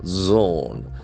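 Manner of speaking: "Zone" opening on a buzzed Z; prominent Z. Shown as a demonstration. Teacher models the word zone, prominent Z sound. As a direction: make the first Z of "Zone" prominent. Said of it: "That Z sound is very prominent".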